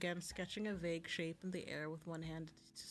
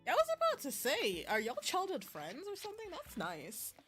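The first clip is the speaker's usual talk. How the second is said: high, lively reaction, louder at first; réaction enjouée; 10 semitones higher, 4 dB louder than usual. Real, not acted. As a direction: react out loud, pitched way up. Streamer reacting aloud to the story.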